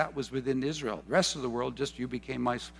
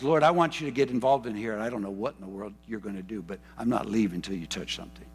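pressing-in prayer; 5 semitones lower, faster than usual. Retold or imitated. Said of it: "old charismatic Pentecostal pressing in".

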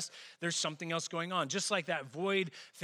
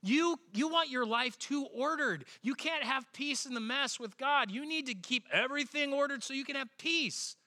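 a bit higher, preachy know-it-all; husband lightly mocking his own smug lecture to his wife; lecturing; 6 semitones higher than usual. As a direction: lecture her smugly. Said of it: "I looked at her, I'm like".

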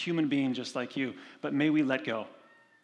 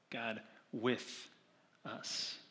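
hushed; 3 semitones lower, 10 dB quieter, much slower than usual. Acted. Reverent hush.

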